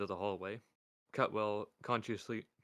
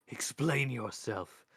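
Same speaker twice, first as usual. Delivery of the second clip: slow, louder demand; stern father; 4 semitones higher, 5 dB louder, much slower than usual. Acted. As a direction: command her slowly, with weight. Death demands of daughter.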